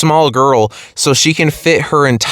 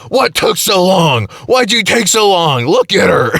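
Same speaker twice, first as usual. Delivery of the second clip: higher, indignant scolding, a little slowed; mock yelling husband; 6 semitones higher than usual. Husband scolding the firefighters from his chair, indignant. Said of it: "yelling at them".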